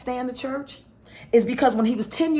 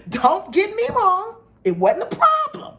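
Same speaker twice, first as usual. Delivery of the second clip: higher, giggly and teasing; coy laughing aside; 12 semitones higher, 3 dB louder than usual. Real, not acted. Wife teasing the audience about her husband's appetite, giggly. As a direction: laugh it off, playfully.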